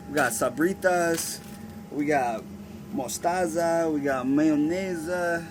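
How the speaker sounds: playful fake Italian accent on the food names; rolling out the menu in a mock Italian accent. Flight attendant joking to Stephanie over crew meals, mock Italian accent. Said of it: "like, a Italian accent".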